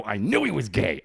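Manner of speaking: retold exclamation of being proved right; a touch of vindication; vindicated. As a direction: announce a mildly triumphant hunch. Reacting to the girlfriend's confession.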